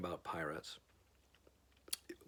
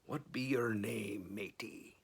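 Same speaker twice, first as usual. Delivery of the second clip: pirate asking; 5 dB quieter, slower than usual. Acted. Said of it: "the head pirate asked".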